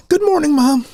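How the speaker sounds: high-pitched young boy imitation; unbroken boy's voice. Fourteen-year-old greeting mom, high boy's voice. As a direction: pipe it up high like a kid before puberty. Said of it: "imagining what I used to sound like".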